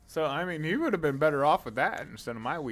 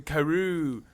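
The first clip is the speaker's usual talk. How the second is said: overacted anime dub; 5 semitones higher, 4 dB louder than usual. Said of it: "It sounds like he's gonna unlock".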